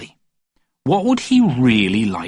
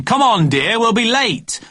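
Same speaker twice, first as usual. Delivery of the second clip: higher, calling out with impatience; impatient call; 10 semitones higher, 3 dB louder, slower than usual. A narrator's reading. Daddy pacing and calling upstairs, impatient shout. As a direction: hurry her along from across the hall.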